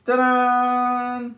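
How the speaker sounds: ta-da. Acted. Reveals finished letter to child.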